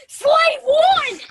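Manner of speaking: high, loud fan shriek; excited yell, drawn out; retold scream. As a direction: re-enact screaming it at the screen. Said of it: "I jumped out of my seat and screamed".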